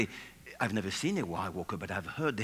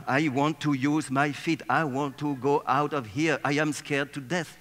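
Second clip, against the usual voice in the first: mock panic; 3 semitones higher, 4 dB louder than usual. Legs voiced in panic under table.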